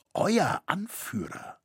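slow, hushed, considered answer; composed reply. A narrator's reading. Master answering the men who want him as leader, composed. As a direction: take it slowly and keep it calm. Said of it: "entgegnete Roritzer gelassen".

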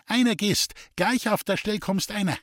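high screeching call; shrieking voice. A narrator's reading. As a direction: screech an order from the parlour. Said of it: "die kreischende Stimme der Staudammerin". (kreischende Rufstimme)

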